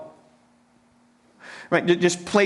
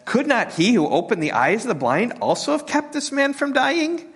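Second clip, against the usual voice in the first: higher, taunting sneer at Jesus; a sneering skeptic in the crowd, much higher; mocking skeptics; 9 semitones higher than usual. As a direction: jeer like a scoffer in the crowd. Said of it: "some of them said".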